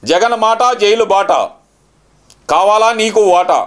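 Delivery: slow, deliberate punch dialogue; menacing movie punchline. Acted. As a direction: deliver it like a film hero's threat. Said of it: "ఇదే correct punch dialogue".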